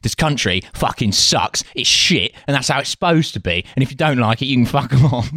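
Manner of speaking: lightly voiced proud British moaner; a touch of defiant British grumbling; miserable British patriot. Contrasting British with American patriotism, proudly miserable grumble. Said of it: "British patriotism is like".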